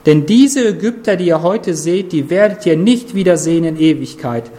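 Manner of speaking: rally the people like a good shepherd; encouraging Moses. Retold or imitated. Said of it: "er ermutigt das Volk".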